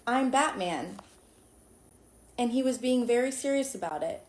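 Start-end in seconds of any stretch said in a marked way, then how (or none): 0.1-1.0 flat, deadpan Batman voice; Batman monotone. Retold or imitated. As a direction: say it flat and dead serious. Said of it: "kept saying in the most monotone voice".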